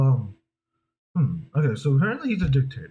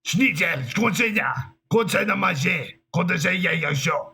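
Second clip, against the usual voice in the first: higher, emphatic fake-German nonsense; mock German gibberish; 5 semitones higher than usual. Imitating the sound of a German speech, mock gibberish. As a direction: spout pretend German in a dictator's voice. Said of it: "just gonna speak gibberish".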